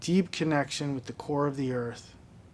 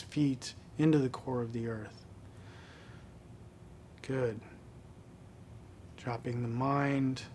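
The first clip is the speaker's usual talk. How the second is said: guided meditation; 6 dB quieter than usual. Real, not acted. Qigong teacher guiding students through belly breathing, calm meditation voice.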